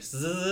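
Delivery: "z" as a buzzing consonant; z sound. Shown as a demonstration. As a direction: buzz out the "z" as an example. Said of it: "a z sound".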